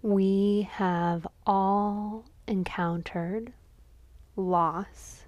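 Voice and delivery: measured dedication with long pauses; contemplative offering. Real, not acted. Lighting a candle for a friend's father, reverent offering. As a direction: let each phrase rest in silence.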